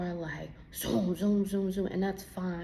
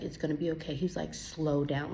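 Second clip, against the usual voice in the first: stern father; 3 semitones lower than usual. Retold or imitated. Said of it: "Like, very sternly, like a father".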